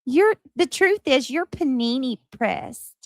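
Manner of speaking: lightly voiced sassy Gypsy; Gypsy Rose voice. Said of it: "she says".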